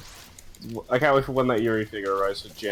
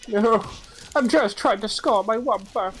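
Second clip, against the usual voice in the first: excited; 10 semitones higher, slower than usual. Real, not acted. Playful gaming banter.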